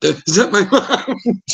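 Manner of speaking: high, slow dread; worried. Retold or imitated. Drunk teen hearing his name yelled, slow dread. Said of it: "I'm like".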